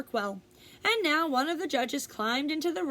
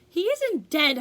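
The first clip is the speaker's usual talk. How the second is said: louder, higher holler; 5 semitones higher, 6 dB louder than usual. A narrator's reading. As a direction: shout the denial across the ring. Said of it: "hollered Zuckerman".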